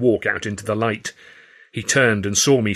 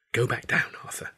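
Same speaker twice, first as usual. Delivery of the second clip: soft breathy warning, much softer; breathed; 2 semitones higher, 8 dB quieter than usual. A narrator's reading. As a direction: urge him away in a hush. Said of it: "she breathed".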